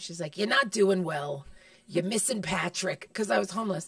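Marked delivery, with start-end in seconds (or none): 0.4-3.1 slow, deliberate imitation of an aunt; imitating a blunt aunt. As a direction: draw out each word as the quoted aunt. Quotes aunt's blunt words to her.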